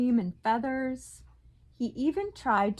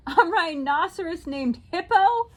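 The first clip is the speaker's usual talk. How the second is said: cried out; 7 semitones higher, 7 dB louder than usual. A narrator's reading. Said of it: "Fluffy cried".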